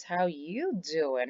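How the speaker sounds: slow, flirty, leaning on "you"; flirty drawn-out How you doing?. Shown as a demonstration. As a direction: deliver "How you doing?" slowly, with charm and stress on "you".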